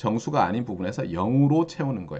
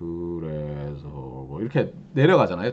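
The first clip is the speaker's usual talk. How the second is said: low, slow, slowed-down tape playback voice. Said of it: "천천히 플레이하면 제 목소리가".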